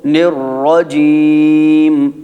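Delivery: slow mock recitation with wrong joins; mock careless recitation; imitating common mistakes. Shown as a demonstration. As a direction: show how people mangle it. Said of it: "اکثر لوگ کیا کرتے ہیں".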